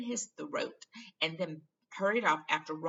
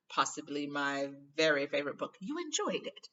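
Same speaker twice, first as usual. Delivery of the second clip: vain Lockhart; 4 dB louder than usual. Acted. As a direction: charm her with vanity. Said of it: "said Lockhart warmly".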